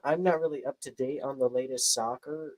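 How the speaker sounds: put-on teasing American-accented delivery. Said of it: "do not do that kind of American accent".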